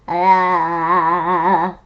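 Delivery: a loud burst of laughter; laughing. Real, not acted. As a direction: laugh out at the joke. Reacting to tongue twister warning.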